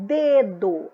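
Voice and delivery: "Dedo" with the first syllable leaned on, falling away; stress on first syllable. Shown as a demonstration. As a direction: demonstrate "Dedo", first syllable strong and second weaker. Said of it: "Olha como é que eu falo". ("Dedo" com ênfase na primeira sílaba)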